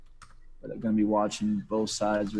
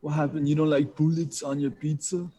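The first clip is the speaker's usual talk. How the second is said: higher, put-on Austrian accent; Arnold Schwarzenegger impression; 5 semitones higher than usual. Guest teases the streamer as Arnold, mock Austrian accent. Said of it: "try to do an Austrian accent".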